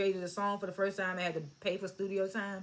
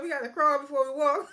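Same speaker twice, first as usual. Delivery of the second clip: mock preachy line; 5 semitones higher, 4 dB louder than usual. Mocking Jimmy's cliché.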